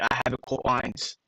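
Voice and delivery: "I have it cold lines" sounded out as spelt; supposed English accent. Shown as a demonstration. Telling viewers how English should sound, sounded out. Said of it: "the accent's supposed to be".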